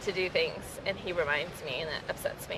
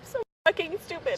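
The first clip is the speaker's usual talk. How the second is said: higher, pushed self-insult; strained angry self-blame; self-directed anger; 8 semitones higher than usual. Shown as a demonstration. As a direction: spit it at yourself, tight and high. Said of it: "Say it the way you say it".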